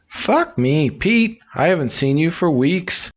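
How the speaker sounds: high cheeky parrot squawk. Acted. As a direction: screech the greeting like a parrot. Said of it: "the parrot says".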